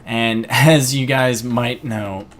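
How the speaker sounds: slow, voice giving out mid-line; words catching as the voice fails; voice cracking. Real, not acted. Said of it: "I kinda lost my voice there for a moment".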